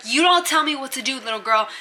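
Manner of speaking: mildly hammed-up defiant comeback; retold indignant retort; mock angry. Bunkie snapping back in retold quarrel.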